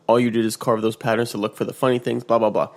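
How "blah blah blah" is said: ordinary delivery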